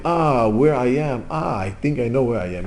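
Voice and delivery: slow, drawn-out dawning realisation; acting out a groggy, gradual recollection; slowly waking up. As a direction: piece it together slowly, as if just awake. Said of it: "the answers are coming slowly, slowly".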